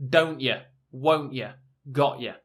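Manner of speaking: British accent, T in don't ya swallowed as a glottal stop. Shown as a demonstration. Teacher demos the British glottal stop on don't ya. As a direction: say don't ya the British way, T stopped in the throat. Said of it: "called a glottal stop".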